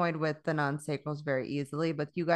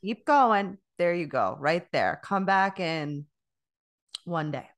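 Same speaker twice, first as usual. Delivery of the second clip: louder mock shoo toward the door; shooing away; 4 dB louder than usual. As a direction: wave them out, louder each time.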